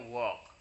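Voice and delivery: "walk" said as "wok"; silent L in walk. Shown as a demonstration. Teacher confirms the reading for pupils, silent L in "walk". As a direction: drop the L in "walk". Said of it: "bacanya walk".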